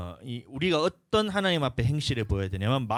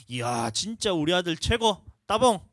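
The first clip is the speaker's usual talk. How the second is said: higher, louder gushing praise; praising father; 5 semitones higher, 4 dB louder than usual. Retold or imitated. Dad praising his boy for sitting nicely, excited. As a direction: cheer your son on like a proud dad.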